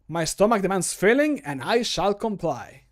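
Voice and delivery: character voice line. Acted. Streamer records a mod voice line, bold character read. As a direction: declaim it like a hungry hero. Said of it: "recording game voice lines".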